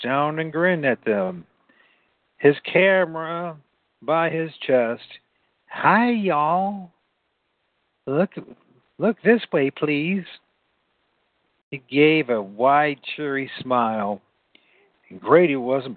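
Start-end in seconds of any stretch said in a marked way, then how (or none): 5.7-10.3 calling out greeting. A narrator's reading. Boy calls to monkeys for photo.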